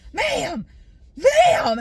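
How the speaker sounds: high, loud mock yell of ma'am; imitating a yelling worker. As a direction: bark ma'am like an impatient clerk. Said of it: "He was yelling at me like".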